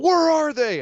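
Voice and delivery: high, loud mock demand; hammed-up furious Braun; mock shout. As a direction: bark the question like an angry giant. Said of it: "He's like".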